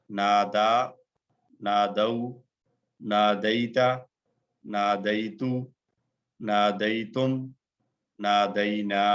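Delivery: each form said slowly and evenly for repeating; slow drill recitation. Shown as a demonstration. Teacher reciting verb forms slowly for the class to repeat. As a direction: recite the conjugation slowly so students can echo it. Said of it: "तीन मर्तबा बगैर तर्जुमे के दोहराइए".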